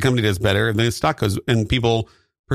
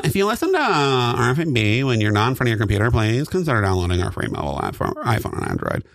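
ad read. Pretend. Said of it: "with less breathing in between".

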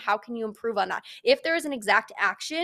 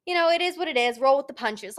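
high, breezy shrug of a voice; mock nonchalance; 4 semitones higher, 3 dB louder than usual. Mocking fake calm about bad body image days, high and airy. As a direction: pretend it's all fine. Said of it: "I would be lying to you guys if I said".

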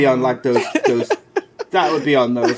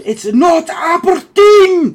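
much higher, louder, slow laughing Scottish yell; mock Scottish shout; 8 dB louder, much slower than usual. The speaker yelling at shaving Simon, laughing Scottish shout. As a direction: scream it in a hammed-up Scottish accent through laughter. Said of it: "Kevin said".

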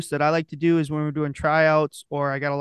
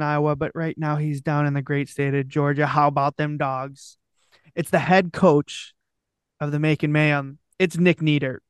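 grand entrance announcement. Acted. Podcast intro announcement.

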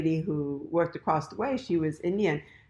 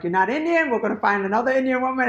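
higher, brisk imitation of rejection; changed personality; 6 semitones higher, 3 dB louder, faster than usual. Boyfriend's mother rejecting her, imitated brusque dismissal. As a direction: dismiss her quickly, voice pitched up. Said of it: "it was a whole different personality".

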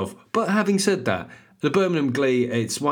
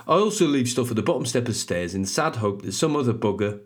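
Birmingham reader's voice; Brummie accent. Acted. Reading a woman's review about the stairs, Brummie accent. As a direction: read it in broad Brummie. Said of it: "it's gonna be a Brummie accent".

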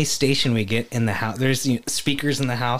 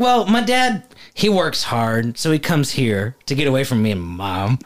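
put-on little Tennessee boy. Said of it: "he sounds like a little Tennessee boy".

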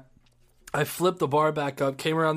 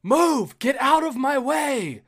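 loud high scream, slower on the end; retold scream; 11 semitones higher, 5 dB louder, slower than usual. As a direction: bellow it up high to clear the crowd. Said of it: "I scream".

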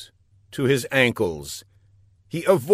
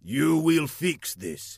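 slow, raised villain order; menacing villain; 5 semitones higher, slower than usual. A narrator's reading. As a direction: spell out the order slowly.

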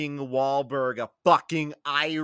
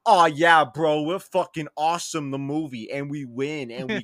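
Irish bro; 3 dB louder than usual. Retold or imitated. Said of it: "where it's basically like".

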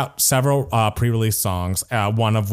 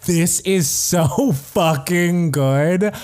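laughing gush; 7 semitones higher, much slower than usual. Real, not acted. Gushing about a new pop song.

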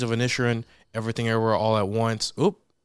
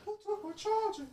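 distant yell from another room; yelling across the room; 11 dB quieter than usual. Real, not acted. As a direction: call out from far away.

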